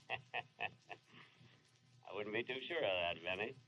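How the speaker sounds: hushed, breathy ghostly voice with a chuckle; a lightly spooky inner ghost. Acted. Benny's own ghost answering him from nowhere, hushed ghostly voice. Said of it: "yes, I'm your ghost".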